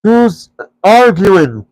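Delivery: troll William denying he argues; indignant troll. A narrator's reading. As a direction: drag it out, offended. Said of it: "said William".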